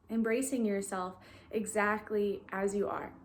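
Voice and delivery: calm, even guiding voice with long pauses; guided meditation. Real, not acted. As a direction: gently lead listeners into stillness, leaving long silences.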